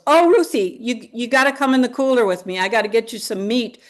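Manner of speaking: high rushed worried voice; blurting it out in a panic; frantic Nan. Retold or imitated. Nan rushing to greet her sister, panicked.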